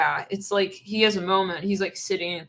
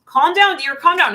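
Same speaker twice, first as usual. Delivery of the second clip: high, loud, exaggerated calm down; hammed-up plea to settle down; mock frantic calming; 7 semitones higher, 9 dB louder than usual. Partner begging the other to calm down, loud and high.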